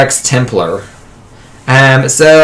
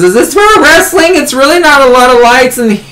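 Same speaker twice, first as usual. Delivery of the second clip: put-on loopy high girl. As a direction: sound drugged up and dazed after surgery. Drugged girl after wisdom teeth.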